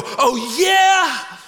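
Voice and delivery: mock bratty teenage comeback; teen sass. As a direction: brush off dad with attitude. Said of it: "I would look at him and I go".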